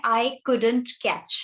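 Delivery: drawn-out, slow model phrase for students; slow, careful teacher's model of the phrase. Shown as a demonstration. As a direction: spell it out slowly so the class can repeat. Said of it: "एक प्यारा सा phrase है".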